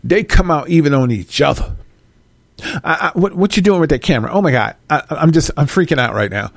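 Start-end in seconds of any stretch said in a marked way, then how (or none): 2.6-6.5 fast, flustered Karen voice; a hint of Karen freaking out at the camera; mock Karen panicking over a camera; panicky Karen. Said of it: "Ken and Karen".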